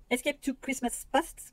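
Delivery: English title read slowly with a French accent. Real, not acted. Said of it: "mon accent fait peur".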